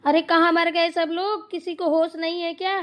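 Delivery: loud, high scolding yell; yelling for everyone. Acted. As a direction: shout for the household from afar. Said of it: "फिर से चिल्लाने लगी mummy जी". (घर भर को ऊँची आवाज़ में चिल्लाना)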